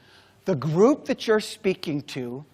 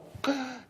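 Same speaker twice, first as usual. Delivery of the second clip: a sharp imitated gasp of shock; crowd gasp; 7 semitones higher, 8 dB quieter than usual. Audience reacting to the chair falling, mock gasp. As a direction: draw in breath like a shocked crowd. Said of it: "three hundred people go".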